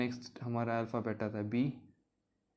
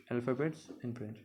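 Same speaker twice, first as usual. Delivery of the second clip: slow careful repeat; 3 dB quieter, much slower than usual. Shown as a demonstration.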